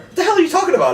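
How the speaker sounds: high, incredulous what the hell; real confusion, voice jumps up; cried out in disbelief; baffled outburst. Real, not acted. Baffled by a card trick.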